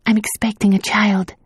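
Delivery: confiding. A narrator's reading. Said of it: "she confided".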